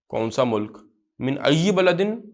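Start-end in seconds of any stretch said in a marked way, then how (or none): 1.2-2.2 slow, drawn-out reading with a rising end; slow reading drill. Shown as a demonstration. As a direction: read each word slowly for the class. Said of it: "teacher reads Arabic slowly aloud".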